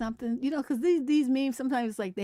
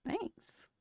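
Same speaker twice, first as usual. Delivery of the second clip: whispered; 11 semitones higher, 8 dB quieter than usual. Retold or imitated. Her reply in meme.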